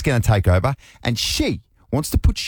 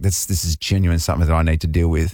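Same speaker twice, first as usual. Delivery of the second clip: plain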